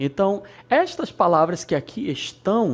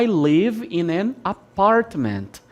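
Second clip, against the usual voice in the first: American English; 3 semitones higher, slower than usual. Shown as a demonstration. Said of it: "se você vai nos Estados Unidos".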